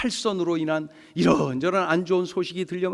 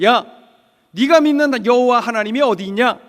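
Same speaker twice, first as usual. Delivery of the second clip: raised-voice taunt, lightly acted; mocking; 4 semitones higher, 5 dB louder than usual. Foreigners scorning the captive poet, mocking. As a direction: scoff at a believer's faith. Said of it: "이렇게 조롱하는 거예요".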